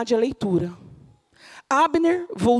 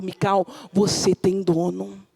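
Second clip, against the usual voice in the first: messenger; 5 semitones lower, slower than usual. Acted. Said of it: "O mensageiro vai ao teu encontro dizendo".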